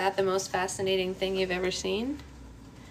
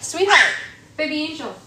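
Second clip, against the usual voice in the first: much higher, sing-song call; 8 semitones higher than usual. Real, not acted. Calling baby back.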